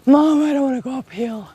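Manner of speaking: put-on grumpy teen whine. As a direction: play a sulky teen complaining to a parent. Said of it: "Grumpy Teen on vacation vibes".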